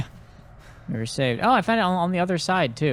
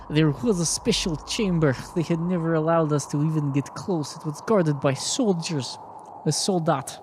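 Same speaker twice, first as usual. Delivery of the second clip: put-on higher, halting accented reading voice; confessing old woman, put-on foreign accent; 4 semitones higher than usual. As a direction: read her testimony solemnly in a put-on accent. Continues reading as Anna.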